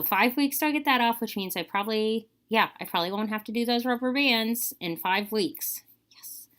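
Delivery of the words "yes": tiny whispered cheer; whispered yes. Real, not acted. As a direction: breathe a quiet triumphant yes. Whispered cheer about dropping bands.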